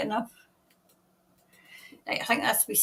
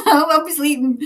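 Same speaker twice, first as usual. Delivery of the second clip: louder, higher, through a laugh; 4 semitones higher, 7 dB louder than usual. Real, not acted. Host tells viewers why tomorrow morning is out, laughing. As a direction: repeat it while breaking into laughter. Laughs at her own slip.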